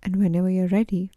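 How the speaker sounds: measured meditation guide with pauses between instructions; even, unhurried guiding voice; guided meditation. Acted. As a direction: lead listeners gently through each breath and image.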